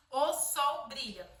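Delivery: "o sol brilha" slow, each word separated. Shown as a demonstration. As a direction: space the words for claps. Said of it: "cada palavra a gente vai bater uma palma".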